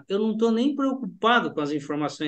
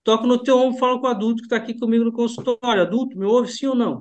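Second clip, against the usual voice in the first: hypnotic command; 3 semitones higher, faster than usual. Shown as a demonstration. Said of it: "Eu posso falar pra ele".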